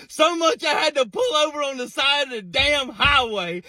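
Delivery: real laughter breaking through the words; talking through a fit of laughter; laughing. Real, not acted. Still laughing about nephew's answer.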